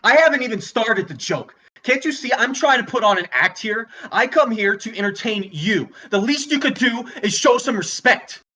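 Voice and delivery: exasperated rant at the audience; worked-up, demanding respect; indignant scolding. Acted. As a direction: scold the crowd, offended. Comedian scolds laughing audience.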